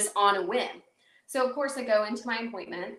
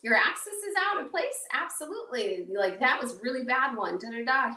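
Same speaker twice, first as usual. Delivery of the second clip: chipper; 3 semitones higher than usual. Retold or imitated. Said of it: "he's like".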